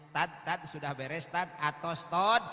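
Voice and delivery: mock guard calling "tad", rising to a loud "tod"; imitating the security guard. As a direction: ham up the guard clipping the word ustad. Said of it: "satpam nanya". (satpam memanggil ustad, meniru dengan lucu dan makin keras)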